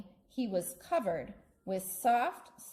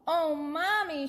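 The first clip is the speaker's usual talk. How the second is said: high, lightly tearful call; a child's upset cry, pitched up; crying out to Mommy; 9 semitones higher, 4 dB louder than usual. Acted. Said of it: "she cried".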